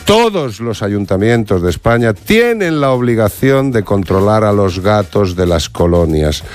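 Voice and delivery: slow, emphatic restatement, each word spaced; slow and deliberate. Real, not acted. Restating the law for councillors who won't understand, slow and deliberate. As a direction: hammer it home slowly. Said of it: "lo voy a decir despacio".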